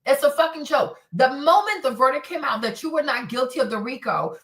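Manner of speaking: ordinary talk, nothing marked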